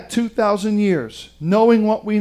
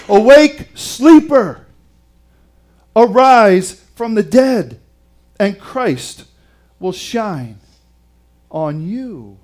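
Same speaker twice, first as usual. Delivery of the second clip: ringing scripture cry that tapers off; rousing proclamation; 5 dB louder, slower than usual. Retold or imitated. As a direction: sound the wake-up call, then settle gradually. Paul's call proclaimed to this generation.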